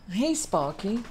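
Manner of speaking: softly greeting the dog; soft pet talk. Real, not acted. Owner calling her dog mid-recording, soft and tender.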